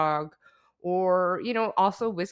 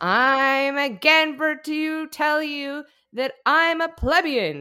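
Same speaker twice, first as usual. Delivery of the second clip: mock drunken ranting speech, higher and louder; 8 semitones higher, 6 dB louder than usual. Performing part of a speech given by a drunk man: imitating a drunken rant. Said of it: "a drunk person on a rant".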